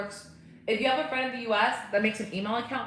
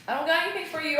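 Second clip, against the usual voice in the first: high-pitched voice to a pet; pet talk; 9 semitones higher, 4 dB louder, faster than usual. Real, not acted. Telling the dog there's no treat, pet talk.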